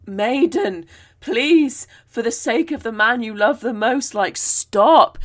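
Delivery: loud, breathless calling after her; panting plea. Retold or imitated. Poich calls after the galloping maiden, panting and loud. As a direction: gasp it out, begging her to stop. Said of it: "he kind of pants out".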